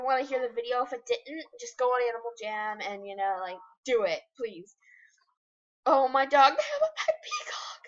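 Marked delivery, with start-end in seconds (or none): 5.8-7.8 excited squeal. Real, not acted. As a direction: squeal at the sight of the peacock. Excited discovery of pet peacock.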